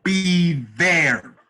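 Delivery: loud, high, emphatic I'll be there; eager acceptance. Retold or imitated. Teller accepting the Vegas job, loud and eager. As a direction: jump at the offer.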